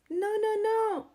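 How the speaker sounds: high, loud triple no; bossy rooster cutting in; emphatic no. A narrator's reading. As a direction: stop them with a loud no.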